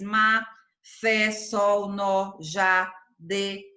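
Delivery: ma, fé, sol, nó, já, de as separate stressed words; ma, fé, sol, nó, já, de, each standing alone; each monosyllable stressed. Shown as a demonstration. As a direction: give each of ma, fé, sol, nó, já, de its own full beat. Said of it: "são pronunciados com mais intensidade".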